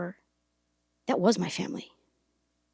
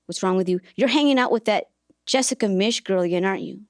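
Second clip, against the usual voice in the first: mock angry mom; 4 dB louder than usual. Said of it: "yelling at her".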